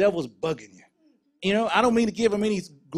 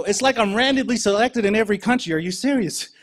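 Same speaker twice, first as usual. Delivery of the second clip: exasperated complaint; 4 semitones higher, 6 dB louder than usual. Retold or imitated. Randomly selected again, exasperated.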